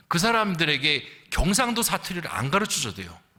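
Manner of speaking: ordinary talk, nothing marked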